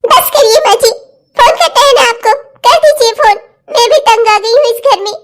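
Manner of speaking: fed-up protest breaking into tears; tearful outburst. Acted. Daughter-in-law fed up with threats to phone, tearful outburst. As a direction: plead and protest through tears. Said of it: "रुला दिया ना बेचारी बच्ची को".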